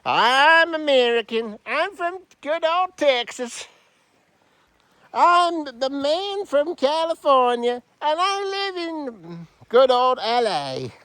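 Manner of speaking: mock Texan American twang; a light, jokey American accent. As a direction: ham up a cheesy American man. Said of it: "we have the American man".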